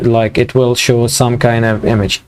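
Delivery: hoarse, strained voice; losing voice. Real, not acted. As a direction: voice giving out a little. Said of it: "I'm losing my voice".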